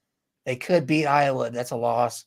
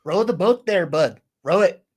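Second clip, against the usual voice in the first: a light, hammed-up Minnesota accent, pitched up a little; 3 semitones higher, 4 dB louder than usual. Standing in for absent Josh's Minnesota bit, light Minnesota accent. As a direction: toss off a jokey Minnesota accent. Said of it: "his Minnesota accent".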